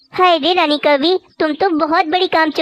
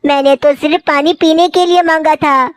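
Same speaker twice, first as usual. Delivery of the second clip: shocked outcry; 4 dB louder than usual. Acted. Mother-in-law drenched with water.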